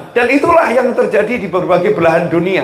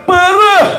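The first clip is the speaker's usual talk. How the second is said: "Parah" pitched way up, then dropped; emphatic "Parah"; 12 semitones higher, 4 dB louder than usual. Shown as a demonstration. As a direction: demonstrate "Parah" high and drawn down at the end.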